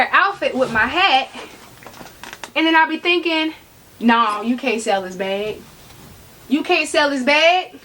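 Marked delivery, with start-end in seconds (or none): 4.0-5.6 lower, settled voice telling yourself no; firm self-talk. Retold or imitated. Talking herself out of selling. 6.5-7.8 raised, more emphatic repeat to yourself; insistent self-talk. Retold or imitated.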